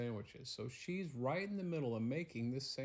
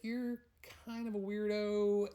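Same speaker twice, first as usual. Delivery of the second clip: put-on much higher, louder teasing girl voice; wary young girl; 9 semitones higher, 4 dB louder than usual. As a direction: call him a weirdo in a high girlish voice. Penelope wary of stranger.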